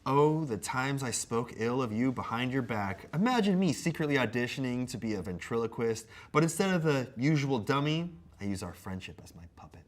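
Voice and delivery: mock-earnest apology read; measured comic recitation; letter read aloud. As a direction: read a scripted apology with playful theatre.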